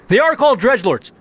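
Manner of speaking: crowing that he was right all along; triumphant. Real, not acted. Gamer crowing he got the name right, excited. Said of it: "an important moment for me".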